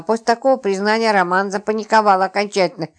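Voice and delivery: usual speaking voice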